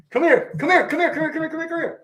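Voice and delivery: high, rapid-fire beckoning; eager urging. Real, not acted. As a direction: hurry your son over, repeating it excitedly. Urging son to come over.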